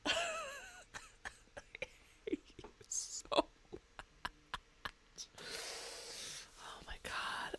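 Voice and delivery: soft breathy whisper. Real, not acted. Streamer whispers to a friend who teased them, quietly. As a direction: hush it, barely voiced.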